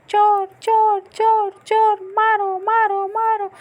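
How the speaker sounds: high alarmed shouts of thief; shouting thief. Acted. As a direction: yell the alarm at the intruder. Bird wakes, thinks thief. (चोर चोर चिल्लाते हुए ऊँची आवाज़)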